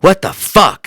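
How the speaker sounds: mock outrage, high and loud; Hajar upset. Podcaster retelling his friend's rare anger, mock outrage. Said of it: "I've never seen Hajar be upset".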